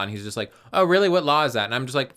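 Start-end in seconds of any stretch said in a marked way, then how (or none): 0.7-1.7 high, loud sarcastic jab; mocking sarcasm. Retelling the cop's challenge, loud sarcastic mockery. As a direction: sneer at the cop's question.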